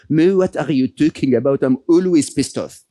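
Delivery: light hint of a French accent; laughing friend in a mild French accent; Matthew Ricard's French accent. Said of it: "in his very French accent".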